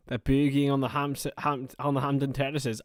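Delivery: lightly attempted Scottish accent. Shown as a demonstration. Streamer trying out an accent for the chat, mild Scottish. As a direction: have a tentative go at a Scottish accent. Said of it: "That's my Scottish accent".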